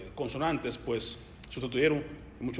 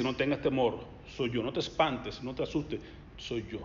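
gentle reassurance; 4 semitones lower, 5 dB quieter than usual. Acted. Preacher voices Jesus comforting.

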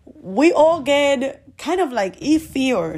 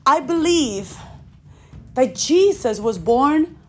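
led prayer. Acted. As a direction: lead them through it phrase by phrase. Leads the prayer, slow pauses.

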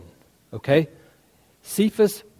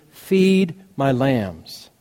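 gentle charge; 3 semitones lower, much slower than usual. Retold or imitated. Jesus commissions Peter gently.

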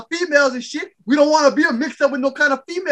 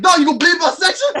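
annoyed complaint; 5 semitones higher than usual. Retold or imitated. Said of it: "Tim was like".

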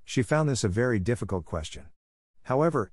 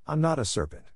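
indignant; 7 semitones higher than usual. A narrator's reading. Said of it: "said Alice indignantly".

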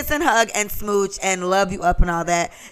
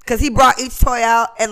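higher, louder, fast emotional outburst about a sad movie; worked-up rant; 6 semitones higher, 6 dB louder than usual. Real, not acted. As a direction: let it pour out, nearly in tears. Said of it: "I'm about to cry now".

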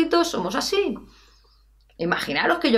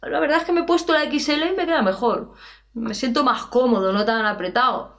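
student admitting; 4 semitones higher than usual. Pretend. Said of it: "Es como si me dices".

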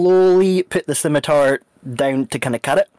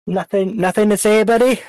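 mocking taunt; 7 semitones higher, 4 dB louder than usual. Interrogator taunting maimed prisoner.

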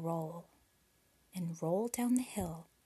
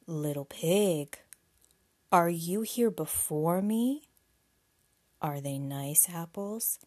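wolf voice; 2 semitones lower, 6 dB louder, slower than usual. Acted. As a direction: drag it out like a big bad wolf. Wolf speaks to the pig.

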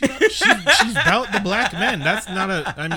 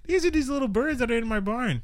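lightly voiced little girl, a touch higher; 5 semitones higher than usual. Little girl introducing her family, lightly voiced child. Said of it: "She's like".

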